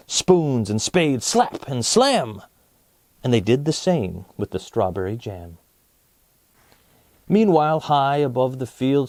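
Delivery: put-on lively read-aloud to children; story narration. A narrator's reading. Storyteller reading verses to young viewers, lively. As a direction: read it like a picture book for kids. Reads a picture-book story.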